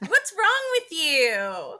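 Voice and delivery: slow, wailing half-sob of disgust; mock crying whine. Friend wailing at the Bowsette sequel idea, mock crying. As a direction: wail it like the idea physically hurts.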